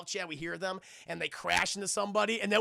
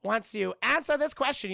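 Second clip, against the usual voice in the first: higher, slow, put-on king voice; mad old king; 9 semitones higher, 5 dB louder, slower than usual. The king bargains with Aang, slow put-on voice. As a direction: draw it out like a scheming king. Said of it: "He's like".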